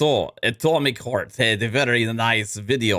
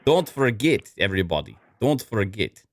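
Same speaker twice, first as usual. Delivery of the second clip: hammed-up ad read. Ad read in accent.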